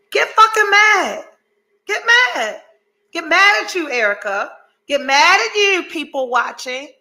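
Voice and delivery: rally them to get angry; fired-up exhortation. Real, not acted. Urging viewers and Erica to get mad, fired-up shout.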